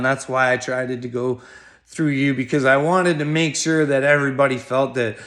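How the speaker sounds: ordinary delivery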